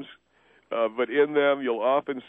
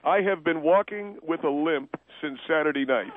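measured, emphatic restatement of a grievance; deliberate repetition. Acted. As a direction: spell it out word by word. Repeats complaint over caller, more deliberately.

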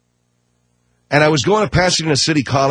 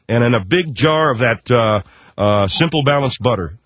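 mock LeBron ad. LeBron pitching Costco samples, mock-earnest ad voice. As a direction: pitch it like a goofy spokesman ad. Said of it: "LeBron James talking about the Tri-Tip".

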